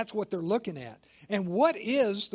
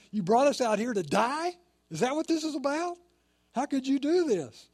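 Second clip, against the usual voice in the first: angry accusation; 6 semitones higher than usual. Retold or imitated. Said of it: "They're, they're very angry".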